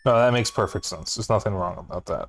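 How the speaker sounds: talking through hiccups; hiccuping between words. Real, not acted. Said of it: "I don't know why I'm hiccuping so much".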